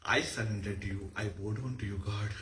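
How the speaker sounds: low, soft prayerful offering; devotional surrender. Shown as a demonstration. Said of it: "surrendering to the Almighty".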